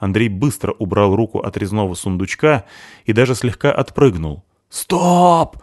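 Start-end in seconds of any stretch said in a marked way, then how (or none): 4.7-5.6 high, loud stop; yelling. Acted. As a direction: bark a sharp halt. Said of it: "заорал он на Грёмлинга".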